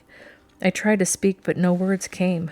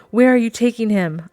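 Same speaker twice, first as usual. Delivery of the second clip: high, louder panicked question; 5 semitones higher, 5 dB louder than usual. A narrator's reading. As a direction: blurt it out in panic. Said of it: "I asked in a panic".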